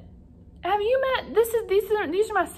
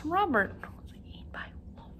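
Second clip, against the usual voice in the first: unvoiced, much softer whisper; shocked whisper; 4 semitones higher, 10 dB quieter than usual. Teacher whispering Robert's news to the class in mock shock.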